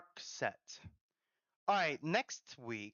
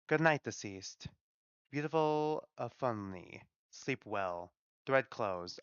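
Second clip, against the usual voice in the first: gentle Godmother, tender. Acted. Godmother telling the newly deceased to rest now, tender. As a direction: soothe them toward rest, easing off at the end. Voices the Godmother soothing Ophelini.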